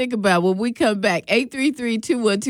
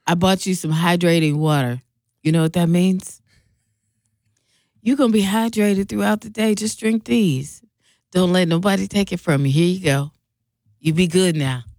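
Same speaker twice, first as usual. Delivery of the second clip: lower, hushed-down send-off; lightly acted plantation-style send-off; slave-message inflection; 3 semitones lower than usual. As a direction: send someone off with low, folksy care. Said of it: "you said that like a slave message".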